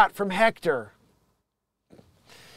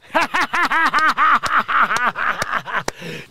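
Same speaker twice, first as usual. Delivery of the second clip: wheezing laugh; 7 semitones higher, 4 dB louder than usual. Real, not acted. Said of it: "stop wheezing".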